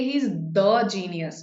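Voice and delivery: he's THE genius, the slow and weighted; stress on THE. Shown as a demonstration. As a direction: lean on THE in the genius. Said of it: "if I want to emphasize".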